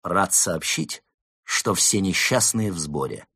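slow start, measured ceremonial delivery; solemn announcement. A narrator's reading. Fox announcing all the unhappy are assembled, solemn. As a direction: proclaim it with deliberate pauses. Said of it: "торжественно произнёс".

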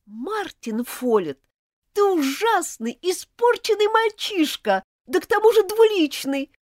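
high, loud outraged accusation; angry and contemptuous. Acted. Elizabeth accuses Martin of theft, high and furious. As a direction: hurl it at him, betrayed and furious. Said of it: "с гневом и презрением".

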